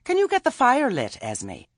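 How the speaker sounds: high, loud, cheery call. A narrator's reading. Nanny calls out to Esme.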